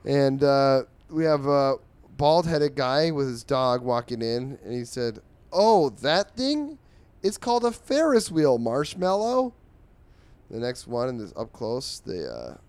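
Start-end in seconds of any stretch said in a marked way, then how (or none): 5.5-9.5 high, slow, louder goofy voice; silly character voice. Acted. Bald guy explains the Ferris wheel to his dog, high goofy voice. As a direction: talk to a dog like a big cartoon goof.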